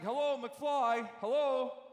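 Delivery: Biff. Retold or imitated. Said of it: "And Biff goes to McFly, he's like".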